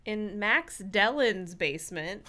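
slow, laughing through words. Real, not acted. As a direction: giggle through the line. Laughing over a name.

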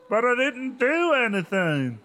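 high, loud, slow wailing protest; hammed-up wail; screaming. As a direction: kid screaming innocence. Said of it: "Lindy screamed".

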